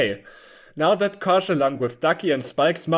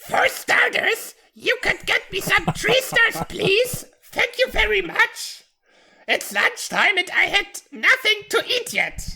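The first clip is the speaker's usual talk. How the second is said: put-on very high, pitched way up young character voice. Reading a younger Topsy's line after asking to make the voice higher: higher voice for young Topsy. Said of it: "should I make the voice higher".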